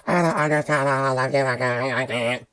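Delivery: whiny imitation of helpless complainers, run together; mock whining. Imitating people bitching and complaining, mock whine. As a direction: whine it mockingly, words smeared into one moan. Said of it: "whining and rolling their hands around and".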